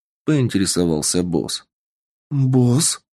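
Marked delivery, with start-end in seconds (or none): 2.3-3.0 surprised. Acted. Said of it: "удивилась девушка".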